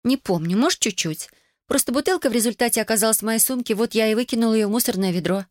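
put-on high-pitched girl making excuses; defensive teenage daughter. A narrator's reading. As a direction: lift the voice high and justify yourself. (подросток оправдывается высоким голосом)

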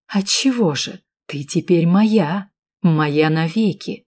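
slow smirking possessive drawl; slow smug gloating. Acted. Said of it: "усмехаясь".

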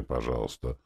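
usual speaking voice

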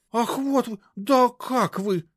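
very high, halting, slow; high-pitched spluttering indignation; choking with outrage. A narrator's reading. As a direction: splutter speechlessly. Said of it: "задохнулась от возмущения".

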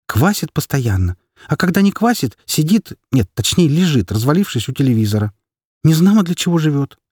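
mother venting to a friend on the phone, fed up; exasperated mother. Acted. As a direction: complain bitterly as the tired mother. Mother complains about husband.

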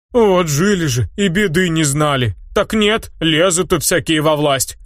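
put-on grumbling old crone. Wise old woman warning travellers, sour high grumble.

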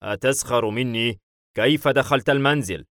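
indignant demand, a touch of anger; mildly angry. Acted. Man confronts intruder in the house, mildly angry. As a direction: bristle as if being mocked. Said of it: "بدت معالم الغضب".

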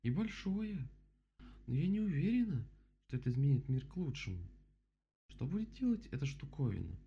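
high-pitched storybook bear; voiced bear character. A narrator's reading. Bear looks over the dam, high character voice.

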